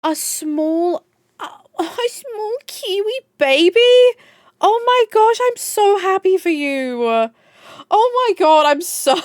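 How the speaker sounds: very high, tearful joy; real happy tears. Real, not acted. Streamer congratulates a friend on a small Kiwi baby, tearful joy. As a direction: squeal it high, overcome with happiness. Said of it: "My eyes are watering".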